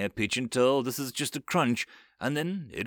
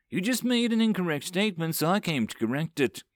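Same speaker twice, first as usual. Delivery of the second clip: pleasant; 6 semitones higher than usual. A narrator's reading. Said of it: "says pleasantly".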